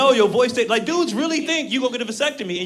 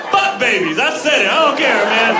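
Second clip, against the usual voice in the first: ordinary talk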